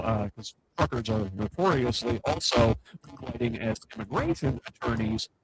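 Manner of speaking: crackling, breaking-up mic sound; crackly usb mic. Real, not acted. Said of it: "apparently my mic is crackling".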